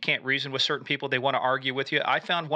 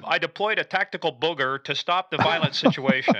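laughing joke; 4 dB louder than usual. Real, not acted. Joking about booger tactic.

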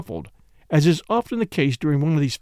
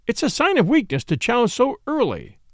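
severe; 8 semitones higher than usual. Acted. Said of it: "said Caroline severely".

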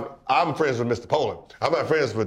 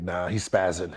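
lower, softer mock brush-off; dismissive scoff; 7 semitones lower, 4 dB quieter than usual. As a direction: dismiss him in a low, quiet scoff. Imitating dismissive public.

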